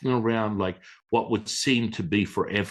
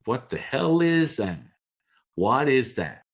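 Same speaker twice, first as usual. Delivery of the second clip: baffled; 5 semitones higher than usual. Retold or imitated. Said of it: "I'm like".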